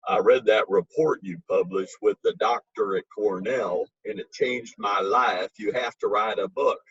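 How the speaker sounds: Memphis Harvey voice. Retold or imitated. Memphis friend urging the author to write a book, lightly put-on Memphis accent. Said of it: "so I'm gonna do my Memphis Harvey voice".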